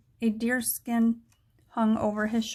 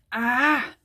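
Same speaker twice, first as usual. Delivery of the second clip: short yelp of shock, a little louder; startled shout; 5 dB louder than usual. Acted. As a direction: cry out as you're yanked into the air. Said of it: "Jack shouted as he was jerked".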